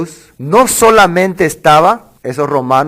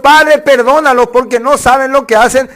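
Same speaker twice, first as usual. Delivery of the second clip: súplica elevada; 7 semitones higher than usual. Acted. Cita de Jesús, aguda.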